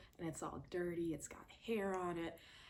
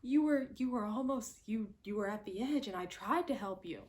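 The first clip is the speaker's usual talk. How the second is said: lying AJ; 4 semitones higher than usual. Retold or imitated. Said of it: "He goes".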